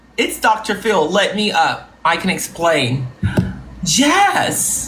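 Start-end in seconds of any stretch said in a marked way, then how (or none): none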